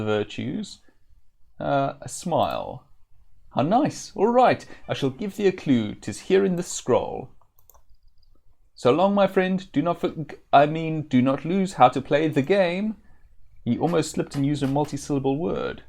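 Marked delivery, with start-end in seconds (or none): 3.5-13.0 higher, louder sing-song jester; jester Chuckles voice. Acted. Chuckles handing the Avatar a clue, high teasing jester.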